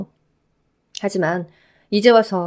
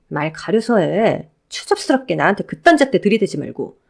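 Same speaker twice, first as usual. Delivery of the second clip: lightly voiced ex-wife, cold and scornful; a hint of a scornful woman cutting him down; 2 semitones higher, 3 dB louder than usual. Ex-wife rebuffing her ex-husband, lightly voiced cold scorn.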